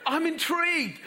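said through laughter, high and loud; laughing. Real, not acted. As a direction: laugh the words out. Laughing while telling story.

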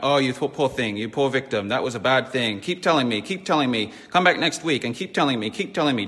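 hint of an over-sympathetic counsellor; lightly mocking, pitying therapist voice. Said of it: "they're gonna have a compassion".

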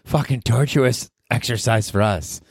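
high sarcastic listener voice; high snarky mock listener. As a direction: sneer as bored listeners. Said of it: "They're like".

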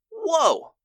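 sudden high astonished whoa; wide-eyed mock amazement. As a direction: gasp out your amazement, way up high. Amazed at eleven-year-old's ordeal.

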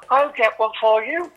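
a hint of putting on a posh voice for the phone. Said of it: "proper phone voice".

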